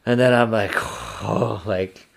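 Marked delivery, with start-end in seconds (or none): 0.8-1.6 soft, retold sigh of dread; anxious sigh. Hunter recalling losing his partner, anxious sigh. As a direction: let out a quiet "oh" as anxiety hits. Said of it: "full-blown anxiety".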